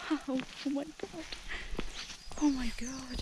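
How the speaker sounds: high, soft gasp of wonder; breathless high oh my God; awestruck. Real, not acted. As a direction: let the wonder lift the voice up. Overwhelmed by the view.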